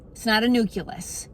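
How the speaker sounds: nucleus said nuke-yuh-lus again; wrong pronunciation. Shown as a demonstration. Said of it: "not a nucleus".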